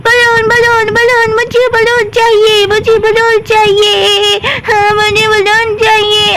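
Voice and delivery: a child's hammed-up wail for a balloon; mock crying child. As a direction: whimper and drag the words like a sulking kid. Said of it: "रोने लगती है".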